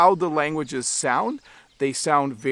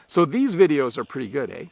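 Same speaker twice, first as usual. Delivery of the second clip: statement with a questioning "eh" tacked on. Shown as a demonstration. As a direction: finish on "eh" as if expecting agreement. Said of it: "a question where I'm expecting you to agree".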